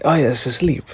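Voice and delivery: a light Italian-accented Jodorowsky impression. Fan imagining Jodorowsky praising a band, in a mock Italian accent. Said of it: "so I'm just gonna do the accent".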